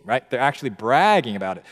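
usual speaking voice

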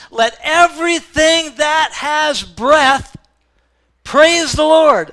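slow, high, loud proclamation; preacher calling out to the whole church; preaching climax. Real, not acted. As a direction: belt it out to the congregation.

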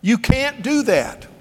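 high, loud alarmed father's yell; panicked father yelling no at his child; screamed no. Retold or imitated. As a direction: shout no to stop the child. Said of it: "kinda screamed".

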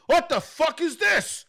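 imitated outrage, high and drawn out; high-pitched hostile disbelief; aggressive reaction. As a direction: demand it slowly in mock fury. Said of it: "'cause she was so aggressive".

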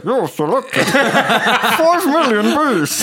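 high, slow, laughing robot voice; automated menu cracking up; phone menu voice. Pretend.

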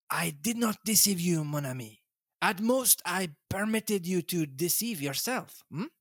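lightly voiced Belgian detective, gently smug; a hint of Poirot, explaining to his friend. Poirot gently teasing Hastings, lightly voiced.

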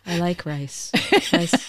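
soft, understated radio-skit delivery; mock NPR host. Imitating the Saturday Night Live radio skit, hushed NPR voice. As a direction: imitate a sedate public-radio presenter, softly. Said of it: "they would do the N P R radio".

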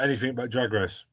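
can't stop laughing at the joke. Real, not acted. Host's joke gets laughter.

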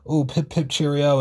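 hint of cartoonish chipper British English; British accent. Imitating the British actor talking about the show, light British accent. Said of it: "with his fucking British accent".

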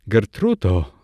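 understated imploring call, falling at the end; narrated entreaty with a falling tune; pleading call. A narrator's reading. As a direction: call the name as a mild plea. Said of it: "zawołał błagalnie".

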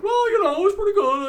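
very high, nerdy shrug voice; nerdy fan voice. Retold or imitated. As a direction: play a grudging fan. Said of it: "nerds that are like".

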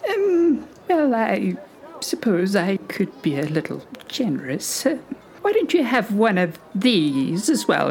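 put-on very old woman. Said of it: "a very old lady".

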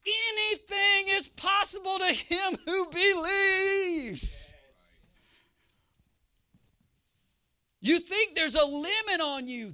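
loud, high, ringing preacher cry, stretched slow on the key words; full-force preaching. Acted. Preacher roaring the promise to the congregation, full force. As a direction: preach it to the rafters.

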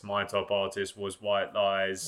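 slow, low and deadpan; monotone voice. Pretend. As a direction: flatten out the big reveal. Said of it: "I should have said in a really monotone voice".

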